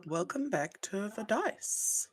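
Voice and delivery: drawn-out announcer voice; announcement voice. Shown as a demonstration. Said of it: "I can use my announcement filter".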